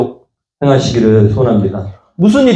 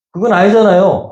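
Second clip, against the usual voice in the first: put-on child protesting; 7 semitones higher than usual. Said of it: "따지는 게 낫더라고".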